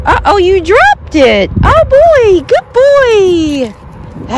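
high, drawn-out cooing to a dog; excited dog praise. Real, not acted. Dog mom to her dog on the leash walk, excited praise.

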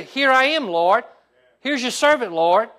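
loud, high cry to the Lord; fervent call. Acted. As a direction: call out to God with full force. Eli coaching the answer, preaching.

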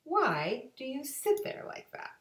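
a hint of a playful cat; Cat in the Hat. Cat tempting bored children, lightly playful. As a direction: coax them with mischief. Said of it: "And he said to us".

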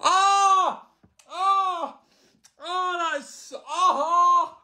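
high pained yelps, mouth on fire; mouth burning from spicy food. Real, not acted. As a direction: gasp as the chilli burns. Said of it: "it's burning my mouth".

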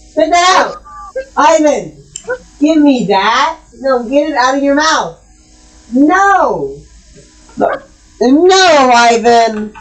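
a frustrated owner scolding the cat. Real, not acted. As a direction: tell off a naughty cat chewing confetti. Scolding the cat eating confetti.

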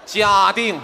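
loud punchline shout; shouted answer. Acted. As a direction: belt out the answer.

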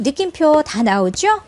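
ordinary talk, nothing marked

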